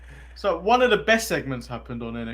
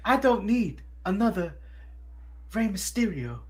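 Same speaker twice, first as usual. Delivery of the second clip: put-on American accent, lightly done; mock American accent; Carmelo in an American accent; 3 semitones higher, 4 dB quieter than usual. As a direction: imitate an American wrestler's accent. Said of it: "Carmelo is, uh, your American accent".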